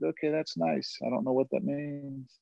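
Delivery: soft, offhand brush-off; dismissive aside. Retold or imitated. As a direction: toss it off softly, politely puzzled. Acts out his dismissive reply to mom.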